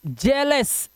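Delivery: "जेलस" with e in the first syllable; short e sound. Shown as a demonstration. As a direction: model "जेलस" slowly as jel-us. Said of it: "क्या पढ़ेंगे".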